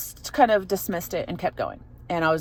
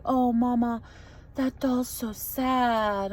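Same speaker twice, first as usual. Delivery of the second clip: put-on a touch higher and soft, slow little-girl voice; mother imitates her daughter sadly pointing at a doll, softly childlike; lightly voiced little girl; 5 semitones higher, 5 dB quieter, much slower than usual. Daughter quoted at bedtime.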